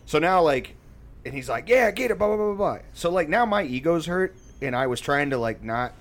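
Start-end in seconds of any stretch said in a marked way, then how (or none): 1.7-2.8 high, louder mock cheering; cheering dad. Dad cheering his kid in sparring, mock excited. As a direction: imitate a dad egging on his son.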